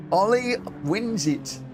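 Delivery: high, slow stretched call of "Ollie"; drawn-out finish call. Real, not acted. Streamer repeating the winner, slow, drawn-out. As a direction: savour the win as you call it.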